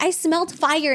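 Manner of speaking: high-pitched mock alarm; dramatic mom alarm. Mom alerting the house at night, mock alarm. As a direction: imitate a mom panicking over nothing. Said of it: "my mom's so dramatic".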